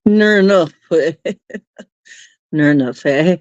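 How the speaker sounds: a light, hammed-up Aussie twang; Australian accent. Trying out an Aussie phrase for chat, mild Australian accent. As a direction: toss it off like a laid-back Australian. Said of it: "That isn't Aussie at all".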